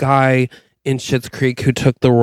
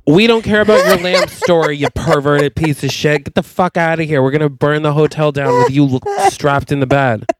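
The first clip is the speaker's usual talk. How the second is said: mock furious rant; 2 semitones higher, faster than usual. Acted furious rant, throwing him out.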